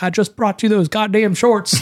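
high, drawn-out Southern scolding; Southern accent. Retold or imitated. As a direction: imitate an exasperated grandma with a Southern accent. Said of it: "I know I did Southern".

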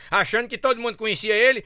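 ordinary talk, nothing marked

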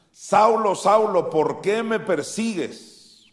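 high, loud call slowing into the question; voice from heaven. Acted. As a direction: call the name twice, then draw out the reproach. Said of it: "oyó una voz que le decía".

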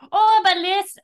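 sudden flustered oh of understanding; surprised realization. Acted. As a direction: burst out as it dawns on you. Realizing he misunderstood.

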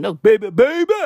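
put-on a quick rapper-style "baby, baby"; imitating a rapper. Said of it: "doing a rapper impression".

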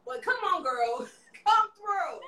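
put-on a light Southern drawl on come on girl; Southern accent. Host welcoming her guest in a playful Southern accent. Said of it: "I don't know where I got that Southern accent".

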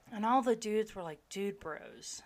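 whispering the gripe under her breath; whispered aside. Real, not acted. Whispering to her friend about the dudes in class. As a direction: hush it like a secret aside.

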